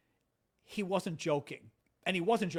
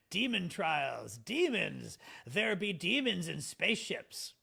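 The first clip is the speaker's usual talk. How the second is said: mock-ominous; slower than usual. Joking archaic warning of demons.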